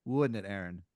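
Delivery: loud, over-friendly small talk; jokey corporate caller. Acted. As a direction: crack a lame joke to break the ice. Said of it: "He goes, he goes".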